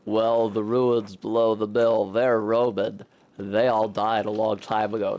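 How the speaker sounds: low voice for Paul, explaining; Paul, earnest villager. Acted. Paul explains the Roman ruins, low earnest voice.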